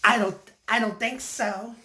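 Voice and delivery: high, loud put-on Australian accent. Turning down the kangaroo's proposal, Australian accent. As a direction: refuse loudly in a mock Australian accent. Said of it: "I said it with my Australian accent".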